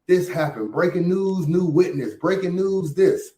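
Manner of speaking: hammed-up breaking news announcer; mock news anchor. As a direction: announce it like a tabloid newsflash. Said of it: "all this breaking news that Battle Truth used to do".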